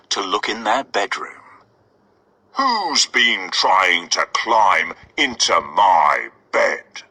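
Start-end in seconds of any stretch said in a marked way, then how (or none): 2.5-7.0 slow mock roar of a papa bear; slow and big, like a growling bear; Father Bear roaring about his bed. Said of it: "roared Father Bear".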